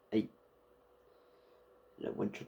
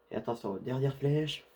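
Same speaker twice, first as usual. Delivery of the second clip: called out, louder; loud warning call; 5 dB louder than usual. Real, not acted. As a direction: announce it sharply. Same words, then called out.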